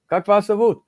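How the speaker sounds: chirpy mock small talk; eager greeting. Acting out introducing himself to strangers.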